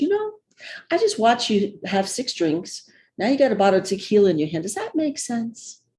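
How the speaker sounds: mock very kind, gentle, sing-song voice. Retelling a sister-in-law's words on the stairs: imitating a kind voice. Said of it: "in a very kind voice".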